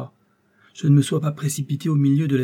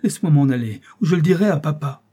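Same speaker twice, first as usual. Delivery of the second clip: put-on high, loud panicked child's voice; a small boy screaming insults at a monster; terrified child shouting; 5 semitones higher, 5 dB louder than usual. A narrator's reading. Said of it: "s'écria-t-il".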